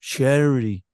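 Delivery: Charity with transatlantic accent, flapped middle t as CHAIR-uh-dee. Shown as a demonstration. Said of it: "a transatlantic accent sounds that much nicer".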